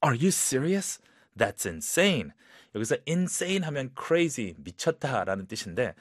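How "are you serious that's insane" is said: serious shock. Shown as a demonstration. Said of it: "좀 더 약간 진지하고 놀란 상황에서".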